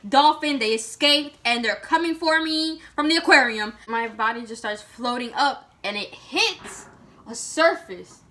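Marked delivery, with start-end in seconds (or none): 0.1-3.7 rushed, alarmed, a bit louder; imitating her own panicked thoughts underwater; panicked rambling. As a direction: babble wild guesses in fright. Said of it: "and I'm like".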